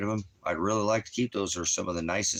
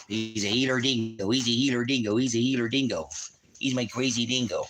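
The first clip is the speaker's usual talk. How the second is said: playful pet talk; 5 semitones higher, 3 dB louder than usual. Real, not acted. Playful chant about his dog's breed.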